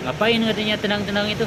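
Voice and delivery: imitating the neighbour's accusing question; mock angry challenge. Neighbour challenging the shop owner for kicking wood, mock angry. Man confronts speaker over kicking.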